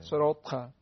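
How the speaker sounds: "صراط" with a thick ط, unlike a light ت; heavy ta. Shown as a demonstration. Teacher contrasting ta with te, heavy "صراط". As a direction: press and release the final ط of "صراط". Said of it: "بالاخره با ت".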